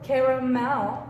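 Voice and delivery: caramel in three full syllables, ca-ra-mel; every syllable pronounced. Shown as a demonstration. Teacher trying to pronounce it all, caramel in three syllables. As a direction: say caramel slowly with the middle a sounded. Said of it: "aunque lo quisiéramos pronunciar todo".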